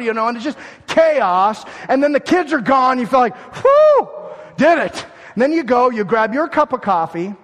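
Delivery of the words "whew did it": loud, high whoop of relief; relieved whoop. Retold or imitated. Mom shouting relief after the kids leave, loud and high. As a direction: shout it like the mom who just made it.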